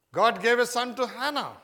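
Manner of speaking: loud, high proclaiming; preaching proclamation. Real, not acted. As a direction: proclaim it to the hall.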